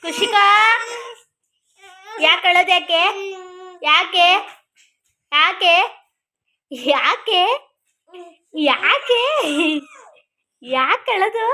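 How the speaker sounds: teasing why-are-you-crying, laughing through it; laughing tease. Real, not acted. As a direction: chuckle while asking why she cries.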